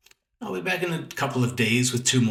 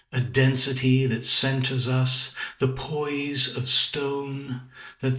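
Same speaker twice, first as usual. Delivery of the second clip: measured, unhurried poetry recital with long pauses; poem reading. Acted. Poet reading his own sonnet to his viewers, measured recital. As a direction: let each line settle before the next.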